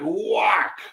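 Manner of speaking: drawn-out whack for the chair hit; long mimicked wallop; imitated blow. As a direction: stretch it like a sound effect. Imitating the chair hitting a head.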